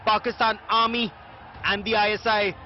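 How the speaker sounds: measured news voiceover, words weighed; news report read. Acted. Anchor introducing a ground report in measured news voice.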